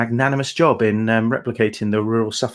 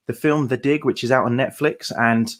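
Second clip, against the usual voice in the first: usual speaking voice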